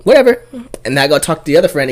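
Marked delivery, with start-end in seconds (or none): 0.0-0.4 high sassy. Retold or imitated. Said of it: "I'm like".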